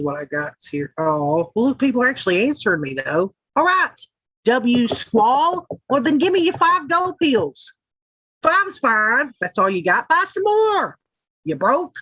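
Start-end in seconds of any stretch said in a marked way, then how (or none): 3.6-11.9 high, hammed-up hateful demands; mock greedy bitch. Streamer hustling listeners for gold pills, mock greedy demands. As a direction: playfully shake them down, pitched high. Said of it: "make me seem like a greedy bitch".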